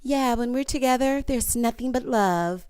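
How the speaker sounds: fake-sweet Valley Girl impression. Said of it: "her little Valley Girl voice".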